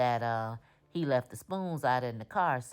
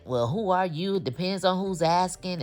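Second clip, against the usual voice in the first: aggressive; 4 semitones higher, 4 dB louder than usual. Retold or imitated. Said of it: "all aggressive and hyped up".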